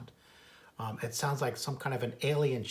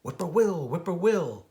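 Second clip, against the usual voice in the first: louder, whistling bird call; whistly whippoorwill call; whistled whippoorwill; 4 semitones higher, 6 dB louder than usual. Acted.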